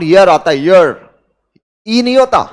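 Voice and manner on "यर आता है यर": ईयर begun with a y glide, "yur"; correct pronunciation. Shown as a demonstration. Teacher correcting the class on "year", ईयर with an initial y sound. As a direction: start ईयर on a firm y, as in "yer". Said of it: "जबकि इसको pronounce करते वक्त initial sound".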